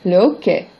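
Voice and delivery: hockey said oke with no h, like hiccup; hockey, silent h, oke. Shown as a demonstration. Teacher saying hockey with no h for students. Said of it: "Sounds like hiccup in French".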